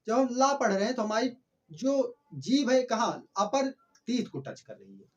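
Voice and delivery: ordinary talk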